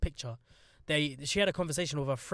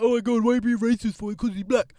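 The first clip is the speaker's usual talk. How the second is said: quick, loud, higher-pitched imitation of offended people; hammed-up accusing quote, raised and rushed; mock outrage; 6 semitones higher, 9 dB louder than usual. Mimicking an oversensitive public, mock outrage. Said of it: "everyone's gonna be like".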